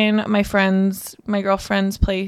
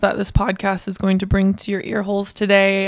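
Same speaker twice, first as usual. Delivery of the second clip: voice giving out. Real, not acted. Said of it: "I feel like I'm losing my voice".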